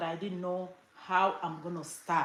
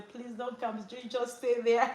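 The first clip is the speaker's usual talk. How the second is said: higher-pitched imitation of a pleading mom; voiced mother; 4 semitones higher than usual. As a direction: beg like a mother on the phone, playfully. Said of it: "My mom will say".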